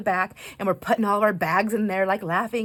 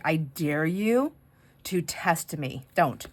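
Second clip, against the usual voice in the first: mock dare; slower than usual. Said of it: "the way she said it was like".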